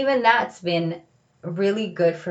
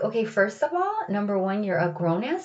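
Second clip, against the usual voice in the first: self pep talk; 2 semitones higher than usual. Retold or imitated. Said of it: "I'm like".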